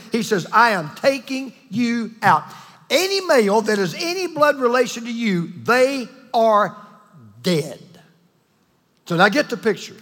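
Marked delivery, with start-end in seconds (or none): 0.5-7.8 slow mock threat. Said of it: "David is so mad".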